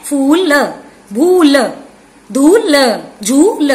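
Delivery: फूल, भूल, धूल, झूल with the final ल split off; word by word, each ending on a detached "luh"; final sound separated. Shown as a demonstration. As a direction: stretch the vowel, then sound ल by itself. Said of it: "पीछे देखिए sound same है".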